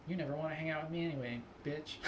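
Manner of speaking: deadpan quick comeback, breaking into a laugh; mock-composed retort with a chuckle at the end; considered, after a moment. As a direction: calmly deliver the insult, joking. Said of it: "I want to have the moment".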